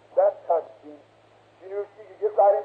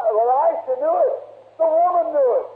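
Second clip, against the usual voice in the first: building fervour; 6 semitones higher than usual. Real, not acted. Preacher building up.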